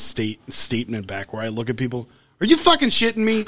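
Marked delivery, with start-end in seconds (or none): 2.4-3.4 high, loud, laughing disbelief; incredulous outburst. Retold or imitated. To people doing gross things, laughing disbelief. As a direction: blurt it out, laughing at the nerve. Reacting to barefoot yoga.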